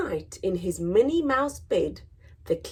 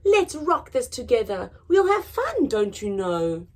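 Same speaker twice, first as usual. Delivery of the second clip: higher, friendly squeaky reassurance; peeping mouse; 4 semitones higher than usual. Acted. Mouse calms the lion, friendly and higher. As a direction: reassure him brightly. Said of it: "Mouse peeped".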